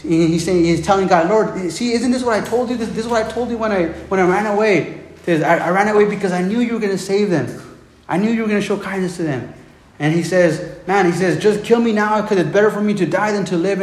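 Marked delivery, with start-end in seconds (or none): 1.3-9.5 high-pitched acted protest; mock I-told-you-so complaint; Jonah. Acts out Jonah arguing with God. 11.4-13.8 Jonah. Acted. Acts out Jonah's despairing complaint.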